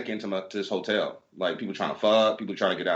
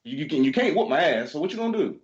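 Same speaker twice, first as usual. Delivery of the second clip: daring challenge; 7 semitones higher than usual. Retold or imitated. Clerk dares the angry guests to fight, defiant. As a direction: square up to the cussing pair.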